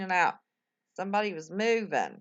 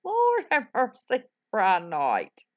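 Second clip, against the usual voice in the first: excited exclamation; 2 semitones higher, 5 dB louder, slower than usual. Real, not acted. Exclaims at a chat name.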